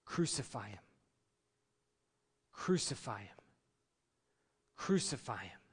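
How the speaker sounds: retold crowd shout. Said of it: "that's when the shouts come".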